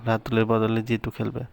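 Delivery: ordinary delivery, nothing marked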